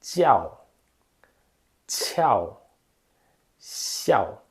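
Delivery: tchau, tchau, then siaw in a row, same smiling lips; jiao qiao xiao. Shown as a demonstration. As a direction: show the three side by side. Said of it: "Vou ler os três nessa ordem".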